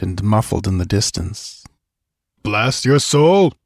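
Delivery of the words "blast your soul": slow, furious oath; angry curse. Acted. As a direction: spit out the curse in rage. Conan curses at the villain.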